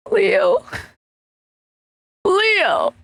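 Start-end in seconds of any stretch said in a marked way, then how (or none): 2.3-2.9 "Leo" lifted much higher, as if calling out; higher called name. Shown as a demonstration. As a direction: call "Leo" upward to get his attention. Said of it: "I'll go from".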